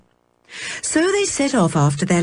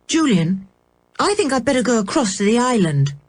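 put-on girl voice; 5 semitones higher than usual. A narrator's reading. George voiced.

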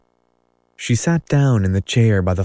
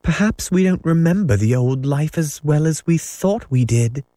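faltering; 7 semitones higher than usual. A narrator's reading. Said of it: "Wendy said falteringly".

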